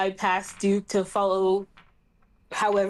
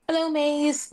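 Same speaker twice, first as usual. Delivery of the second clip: higher, mildly wary hello; tentative, raised-pitch character voice; apprehensive greeting; 6 semitones higher, slower than usual. Acted.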